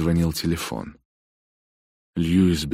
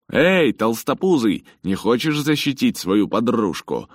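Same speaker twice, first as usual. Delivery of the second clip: loud, high jeering taunt; mocking bully; 8 semitones higher, 6 dB louder than usual. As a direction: sneer it at him loudly. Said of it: "рассмеялся так же".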